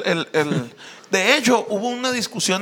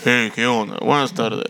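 much lower, booming greeting; gigantic voice; 7 semitones lower than usual. Acted. Friend greeting the others for laughs, gigantic low voice. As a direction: greet them in a huge deep voice. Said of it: "Pinche voz gigantesca este cabrón".

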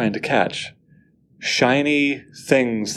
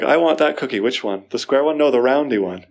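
put-on child voice; 2 semitones higher than usual. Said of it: "That's what a child would say".

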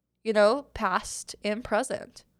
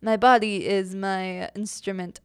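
lightly put-on, possibly French theater accent; vague theater accent. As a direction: attempt an unplaceable thespian accent. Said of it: "I don't know what accent I'm trying to do".

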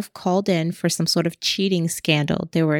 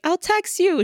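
mock teasing; 11 semitones higher than usual. Teasing banter between the two.

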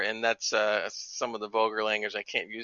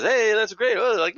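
raised, higher hyped announcer call; NBA announcer voice; 8 semitones higher, 5 dB louder than usual. Retold or imitated. Imitating the ex-NBA announcer in the game, hyped. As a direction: hype it up like a courtside announcer. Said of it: "he uses this N B A announcing voice".

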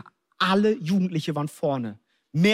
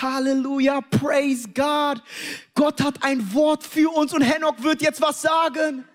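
high, hyped-up revival pastor cry; retold preacher's shout; 7 semitones higher, slower than usual. Imitating pastor announcing a word to the crowd, high excited shout. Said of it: "er fängt an zu schreien".

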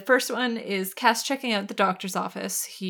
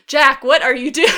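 exasperated; 5 semitones higher, 12 dB louder than usual. Retold or imitated. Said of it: "I'm like".

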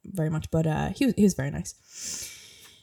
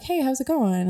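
friendly greeting; 7 semitones higher than usual. Retold or imitated. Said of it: "super personable and was like".

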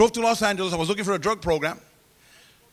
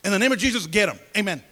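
Lydia's prayer; 2 semitones higher than usual. Retold or imitated. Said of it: "I'll never forget her prayer".

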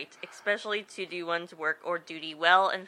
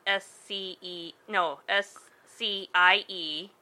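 spelling it out. Shown as a demonstration. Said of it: "it was spelled".

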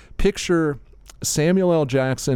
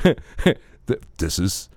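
higher, laughing with glee; laughing delight; 4 semitones higher, much slower than usual. Retold or imitated. Thanking his wife in the dream, laughing. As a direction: giggle like a kid with a gift.

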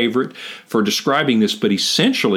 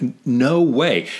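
NO WAY drawn out slowly and higher; emphatic refusal; 4 semitones higher, slower than usual. Retold or imitated. Paraphrasing Paul's Greek for a co-host, emphatic. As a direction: stretch out a firm NO WAY. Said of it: "it's an emphatic".

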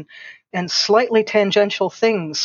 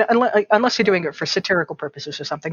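ordinary talk

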